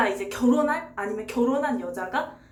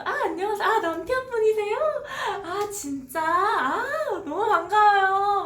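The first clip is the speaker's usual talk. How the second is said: cheerful laughing friend; 10 semitones higher, 4 dB louder than usual. Retold or imitated. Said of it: "이렇게 막 웃으면서".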